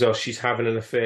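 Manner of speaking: ordinary talk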